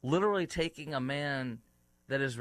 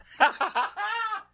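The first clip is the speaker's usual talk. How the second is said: squealing laugh at own bad impression; laughing at himself, much higher; 5 dB louder than usual. Real, not acted. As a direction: burst of high giggling. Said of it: "It's bad".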